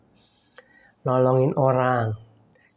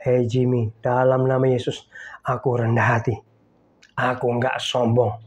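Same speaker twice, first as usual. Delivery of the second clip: calm, lower affirmation to himself; confession of faith; 4 semitones lower than usual. Retold or imitated. Pastor declaring his faith confession, calm. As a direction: affirm it steadily to yourself. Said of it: "Pengakuan iman tuh gini".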